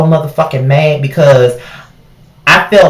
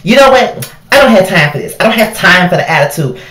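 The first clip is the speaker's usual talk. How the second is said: higher, snippy huffy voice; mock huffy customer; 6 semitones higher than usual. Customer snaps at cashier over scanning, mock huffy. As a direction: imitate her getting fed up. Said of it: "She was like".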